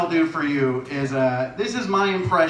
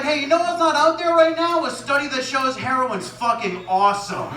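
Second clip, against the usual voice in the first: mock eager researcher; 11 semitones higher than usual. Imagined researcher pitching study.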